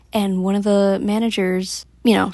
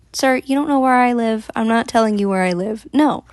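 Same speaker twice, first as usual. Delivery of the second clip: firm refusal; 3 semitones higher than usual. Retold or imitated. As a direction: set a hard boundary with this stranger. Retelling a firm refusal to stranger.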